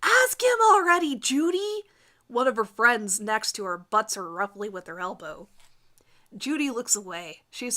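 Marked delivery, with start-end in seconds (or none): 0.0-1.8 loud, high, pushy friend; impatient friend calling out; urging shout. Acted. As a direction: shove her into it with your voice. Friend urging shy Judy.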